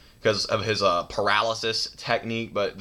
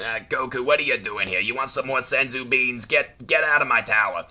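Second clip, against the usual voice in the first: Korin voice; 2 semitones higher than usual. Retold or imitated. Voicing Korin shooing Goku away.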